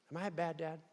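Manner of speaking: soft laughing repeat. Real, not acted. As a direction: laugh through the question. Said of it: "laughing repeat".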